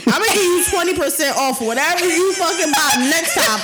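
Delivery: salesperson voice. Retold or imitated. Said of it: "Jay Sherry be like".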